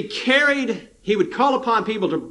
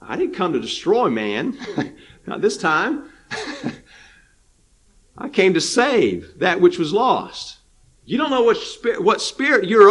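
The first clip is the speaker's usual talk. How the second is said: gentle rebuke. Retold or imitated. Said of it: "The Lord says".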